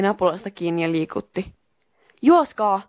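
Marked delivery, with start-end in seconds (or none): 2.2-2.8 urgent, louder, higher call; shouted command. Acted. Miika warns friends to flee, shouting. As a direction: yell it as a quick warning. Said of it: "Miika huusi".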